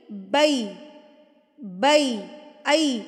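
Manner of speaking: بَي slowly gliding from "a" to "ee"; "ee" at end. Shown as a demonstration. Correcting students' vowel, بَي ending in "ee". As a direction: land بَي on a clear "ee". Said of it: "ای کی sound آئے گی اینڈ پہ".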